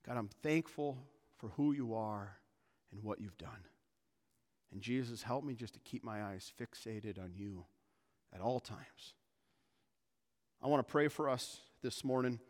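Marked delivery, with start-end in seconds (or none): 0.1-9.1 softer, lowering prayer voice; quietly entreat God, voice sinking; earnest prayer. Acted. Pastor models the church's prayer to God, hushed and earnest.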